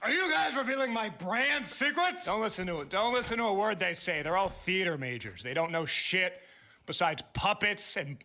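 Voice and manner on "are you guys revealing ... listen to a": bright squeaky sing-song welcome. Acted. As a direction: burst in like a cheery showman. Boss bursts in high and loud.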